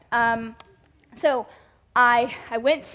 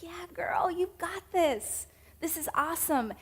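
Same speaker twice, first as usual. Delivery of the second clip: soft, higher whispered encouragement; encouraging whisper; 6 semitones higher, 6 dB quieter than usual. Retold or imitated. God gently cheering her on, in a soft whisper. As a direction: hush it like a secret pep talk.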